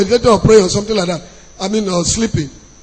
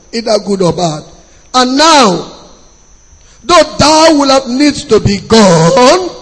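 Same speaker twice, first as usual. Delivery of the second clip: scripture reading. Acted. Reads Laban's speech from the Bible.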